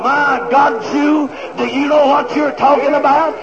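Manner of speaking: exclaiming from the pulpit; fired-up preaching. Real, not acted. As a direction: preach it with mounting astonishment. Preacher at full force.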